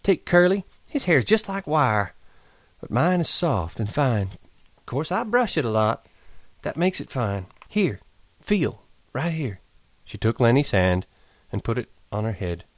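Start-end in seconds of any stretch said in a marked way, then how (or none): 0.0-9.6 put-on high, vain young woman; Curley's wife voice. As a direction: show off her hair. Curly's wife voice.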